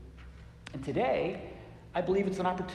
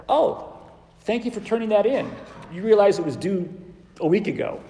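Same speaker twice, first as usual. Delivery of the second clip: mock-sweet, louder teasing rebuke; sarcastic teacher; 3 semitones higher, 5 dB louder than usual. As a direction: tease the late student with a laugh. Preacher acts out scolding his student.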